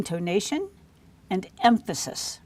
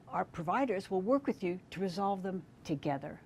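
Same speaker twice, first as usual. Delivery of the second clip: softer, warm welcome to the parent; inclusive we language; 6 dB quieter than usual. Shown as a demonstration. Provider greets Missus Baker at the clinic, softer and warmly inclusive. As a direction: invite her in as a partner, softly. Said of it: "listen for we language in the following".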